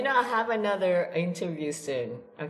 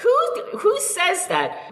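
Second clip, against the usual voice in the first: who on earth says that, rising; incredulous. Real, not acted. Teasing disbelief at the phrase.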